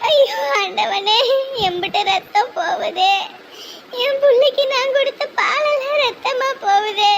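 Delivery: slow wailing cry to God; mother lamenting her son's blood, slow and anguished. Acted. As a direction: drag it out in despair. Mother sees son's bleeding hand.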